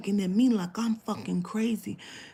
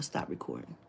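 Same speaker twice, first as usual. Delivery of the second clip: hushed whisper; 11 dB quieter than usual. Retold or imitated. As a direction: tell her quietly to stop. Hushed instruction.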